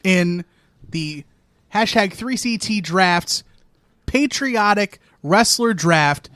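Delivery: slow, formal draft announcer. Pretend. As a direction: announce the pick like the NFL draft.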